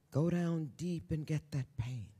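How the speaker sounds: quiet urging. Real, not acted. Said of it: "quiet earnest advice to audience".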